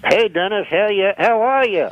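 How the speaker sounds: cocky puppet voice thrown from the side; ventriloquist dummy Rusty. Acted. Rusty the puppet greets Dennis, cheeky dummy voice. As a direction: play the wisecracking dummy greeting the host. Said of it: "Rusty, say hello to Dennis".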